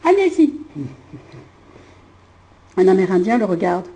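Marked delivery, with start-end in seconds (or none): 2.8-3.9 voix grave aux lèvres en plastique; voix bizarre. Acted. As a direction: comme si ses lèvres étaient en plastique. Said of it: "C'est quoi cette voix-là?". (voix de doublage étrange, plus grave)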